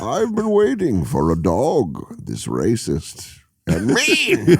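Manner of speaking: parody villain line. Acted. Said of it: "Again, cadence. Just gotta go up at the end".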